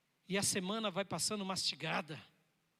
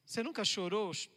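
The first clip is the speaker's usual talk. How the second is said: ordinary talk, nothing marked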